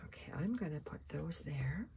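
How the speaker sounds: breath held while speaking; holding breath. Real, not acted. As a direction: talk with your breath held. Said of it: "See how I was holding my breath?".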